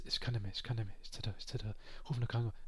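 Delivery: weak moaning voice, sinking into a whisper; pitiful drunk whine. Retold or imitated. Drunk Giovanni begging his friend to call an ambulance, whimpering. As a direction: play the helpless drunk begging for help.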